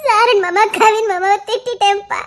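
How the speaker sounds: tearful pleading. Acted. Daughter crying to father.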